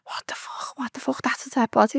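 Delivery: whispered panic, rising into a high hushed voice; retold scream kept under the breath; mock hushed scream. Woman reliving her panic at the body, hushed mock scream. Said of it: "I started screaming".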